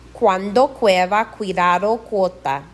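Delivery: Cuando, cueva, cuidado, cuota begun with KW as in quick. Shown as a demonstration. Teacher modelling CU before a vowel, KW as in quick. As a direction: glide from K through W in cuando and cueva. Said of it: "like the Q U in quick".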